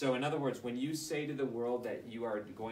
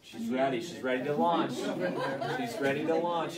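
hyping up; 3 semitones higher, 8 dB louder than usual. Real, not acted. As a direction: cheer her on loudly as she steps up. Hyping up next person.

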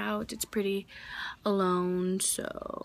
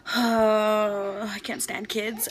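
mock grumpy; 4 dB louder, much slower than usual. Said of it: "that was probably very attractive".

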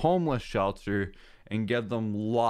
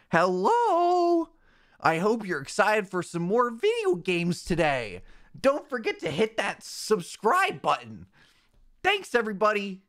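much higher, hammed-up YouTuber outro; streamer voice; 8 semitones higher than usual. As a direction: overeager fake streamer pitch. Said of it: "my new streamer voice".

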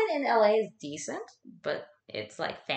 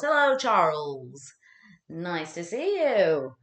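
slow greeting; 3 dB louder, much slower than usual. Real, not acted. Greeting a viewer slowly.

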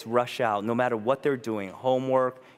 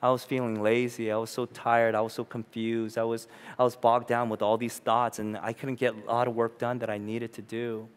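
tired confession; 4 semitones lower, 4 dB quieter than usual. Retold or imitated. Father telling his kids about a hard day, weary and soft. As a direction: sigh it out like a worn-out dad. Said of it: "I'm honest and say".

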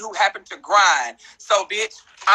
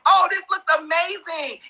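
mock fake praise; 8 semitones higher, slower than usual. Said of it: "fake-ass people telling you".

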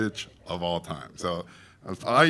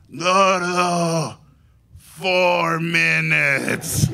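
firm refusal; 5 semitones higher, 6 dB louder, much slower than usual. Retold or imitated. Guillermo refuses to wait.

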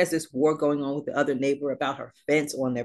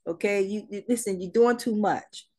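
God scolding; 4 semitones higher than usual. Retold or imitated. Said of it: "God is like".

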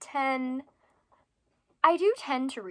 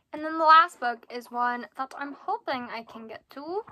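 odd put-on delivery; 4 dB louder than usual. Real, not acted. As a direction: stretch it out with a rising, silly lilt. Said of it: "why I'm talking like this".

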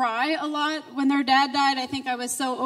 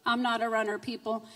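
soft wry aside; 4 semitones lower, 5 dB quieter than usual. Real, not acted. Joking with the congregation, she says it softly. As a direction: lower and softer, almost confiding.

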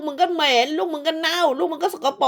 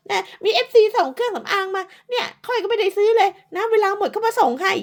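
mocking mimicry; 8 semitones higher than usual. Mimicking the rival's boasting.

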